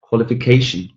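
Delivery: "qualification" with CA stressed; natural-speed model of "qualification", second-to-last syllable strongest; stress on penultimate syllable. Shown as a demonstration. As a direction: lean on CA in "qualification". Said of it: "the penultimate syllable is stressed".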